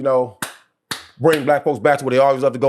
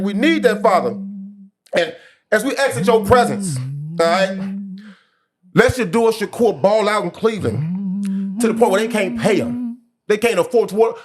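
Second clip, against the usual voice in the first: mock church prayer; 3 semitones higher than usual. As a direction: pray it like a deacon at the altar, half joking.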